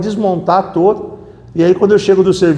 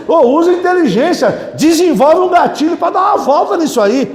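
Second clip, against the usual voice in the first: preaching shout; 7 semitones higher than usual. Real, not acted. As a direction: shout it at the congregation. Preacher urging the congregation.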